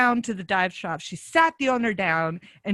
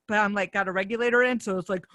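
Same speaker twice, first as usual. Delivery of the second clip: usual speaking voice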